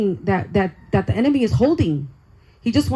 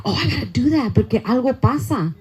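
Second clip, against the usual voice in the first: laughing; 2 semitones higher than usual. Retold or imitated. Laughing while recalling the decal idea.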